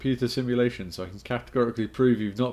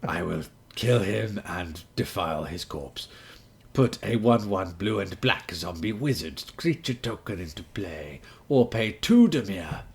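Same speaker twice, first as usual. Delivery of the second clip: ancient rasping undead king. Acted. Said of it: "in my Dimir voice".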